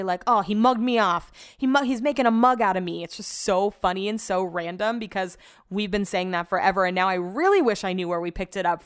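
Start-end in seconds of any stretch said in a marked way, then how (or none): 0.2-3.0 lightly mimicked English reality-show contestant; a hint of English accent, punched louder; imitated English contestant. Podcaster quoting Love Island slang, mild mock English accent. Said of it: "hear them on Love Island say".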